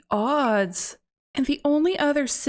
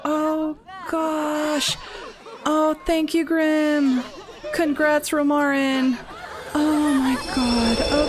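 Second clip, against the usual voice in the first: relieved laughing; 4 semitones higher, slower than usual. Real, not acted. Relief after rescue.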